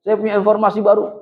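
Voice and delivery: imitated shout. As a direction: call the crowd over, a half-strength retold shout. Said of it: "dia teriak". (menirukan seruan memanggil warga, nada tinggi)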